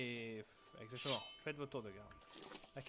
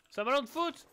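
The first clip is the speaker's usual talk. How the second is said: surprised; 13 semitones higher, 14 dB louder than usual. Real, not acted. Surprised find in chest.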